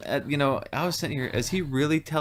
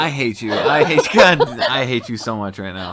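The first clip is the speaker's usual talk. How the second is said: louder, playful fake fury at a friend; hammed-up outrage at being pranked; mock anger; 7 dB louder than usual. Friend mock-angry at bunny prank.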